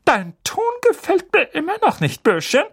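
high, loud menacing rebuke; menacing aunt. Acted. Aunt warning Harry about his tone. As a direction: narrow the eyes and warn. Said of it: "sagte sie".

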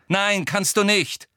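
short, firm no; curt refusal. A narrator's reading. Harry turning down Ginny's help, curt. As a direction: refuse curtly. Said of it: "sagte Harry knapp".

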